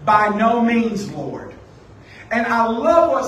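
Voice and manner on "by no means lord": Peter's formal refusal. Retold or imitated. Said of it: "Peter tells God".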